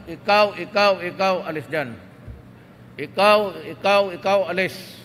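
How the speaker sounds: loud, firing them one by one; the president imagines firing officials, loud and commanding; commanding dismissal. Pretend. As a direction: jab each "ikaw" like pointing at someone. Ordering officials out, revolutionary government.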